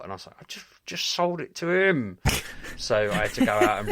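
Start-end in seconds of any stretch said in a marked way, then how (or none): 0.4-2.2 high-pitched mock wail; exasperated protest. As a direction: whine in comic dismay at your own blunder. Retold exasperated protest to shopkeeper.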